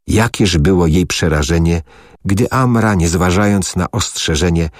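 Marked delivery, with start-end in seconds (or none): none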